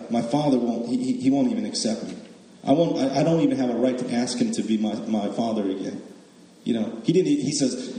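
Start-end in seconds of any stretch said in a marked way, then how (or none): 0.1-6.0 despairing younger son. Retold or imitated. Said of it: "Like the, the younger son".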